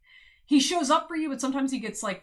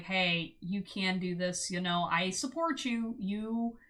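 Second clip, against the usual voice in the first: gently lowered, reassuring partner voice; 4 semitones lower, 4 dB quieter, slower than usual. Acted. Future partner encouraging a stressed loved one, mildly soothing. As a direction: lightly act out a calm, supportive partner. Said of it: "just trying to, like, reassure you and guide you".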